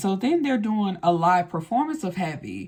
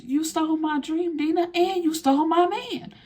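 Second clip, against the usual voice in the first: imitating Effie; 9 semitones higher than usual. Effie accuses Dina.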